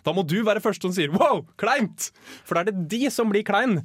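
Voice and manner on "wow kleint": loud, higher mock exclamation; exclaimed. Guest demonstrates being first to call out awkwardness, exclaimed. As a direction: blurt it out with a big rising wow. Acted greeting, calling out awkwardness.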